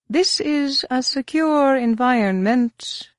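sibilant voice. Acted. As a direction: hiss it out like a reptile. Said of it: "in his sibilant voice".

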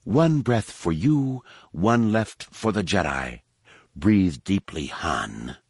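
slow, gloating villainess; malevolent taunt. A narrator's reading. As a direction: savour the threat. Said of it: "She grinned malevolently".

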